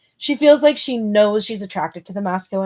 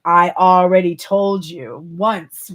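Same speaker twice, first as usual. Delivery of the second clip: sassy reminder; 3 semitones lower, 5 dB louder, slower than usual. Retold or imitated. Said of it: "that's like".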